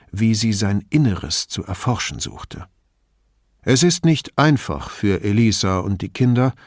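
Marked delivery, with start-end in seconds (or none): 3.6-6.5 friendly. Acted. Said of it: "sagte er im Ton eines Freundes der Familie".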